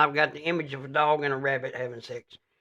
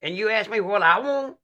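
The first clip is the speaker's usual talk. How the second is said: fed-up visitor; 5 semitones higher than usual. Pretend. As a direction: grumble like a let-down pilgrim.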